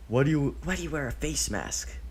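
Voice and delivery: put-on high little boy's question; curious child. A narrator's reading. Child Deidara suddenly asking Obito about his mask, high curious voice. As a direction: ask like a nosy kid. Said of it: "Deidara suddenly asks".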